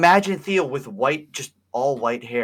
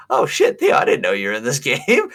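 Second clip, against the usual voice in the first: mock surprise; 5 dB louder than usual. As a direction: act out a startled discovery, amused. Retells his surprise on seeing game character.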